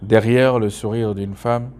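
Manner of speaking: measured poetry reading, each refrain lifted; poem recitation. Acted. Poet reading a favourite poem on women's hidden pain, measured recitation. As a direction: recite line by line with firm openings and pauses between verses.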